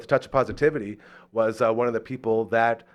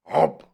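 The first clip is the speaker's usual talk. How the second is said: short imitated chomp noise; sudden mimicked dog bite; quick vocal chomp; 4 dB louder than usual. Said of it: "the dog just goes".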